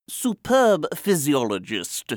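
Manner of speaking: slow, admiring pronouncement; acclaiming. A narrator's reading. Journals acclaim the writer.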